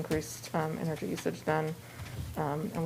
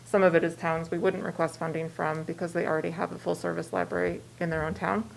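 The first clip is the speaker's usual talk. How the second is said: muffled behind a mask; speaking through a mask; through a face mask; 4 dB louder than usual. Real, not acted. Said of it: "I'm a little muffled with mask".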